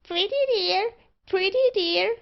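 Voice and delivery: high, loud talking-bird screech; screaming magpie. A narrator's reading. Magpie calls out while barber chatters to it, screaming. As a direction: shriek it like a pet magpie. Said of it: "the sagacious bird screamed forth".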